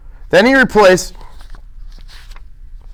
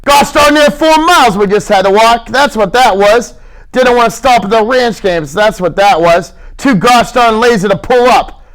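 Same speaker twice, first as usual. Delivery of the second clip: raised, griping complaint; mild heated gripe; irritated grumbling; 6 semitones higher than usual. Acted. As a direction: grumble at Lenny about the walk.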